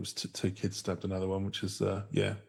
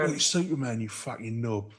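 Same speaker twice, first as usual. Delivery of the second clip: raised, hammed-up Cockney jeer; mock Cockney accent; 2 semitones higher than usual. Friends mocking a Cockney villain, Cockney jeer. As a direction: sneer it like a Cockney geezer.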